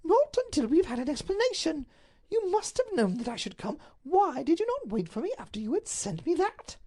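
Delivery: high, pressing demand; insistent duchess. Acted. Duchess demands an explanation from the Duke, high and insistent. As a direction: refuse to budge until he explains.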